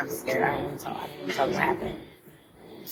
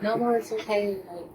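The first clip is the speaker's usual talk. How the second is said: retold reassurance; 5 semitones higher than usual. Friend hugs a crying classmate, retold reassurance. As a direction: imitate a friend soothing someone, pitched up.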